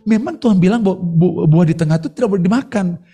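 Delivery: firm high refusal. Retold or imitated. Adam rejecting the devil's offer, firm and high. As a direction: shut the tempter down firmly. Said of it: "si Adam itu bilang".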